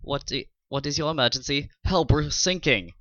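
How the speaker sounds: put-on a clueless German officer, in a German accent. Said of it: "the German Coast Guard".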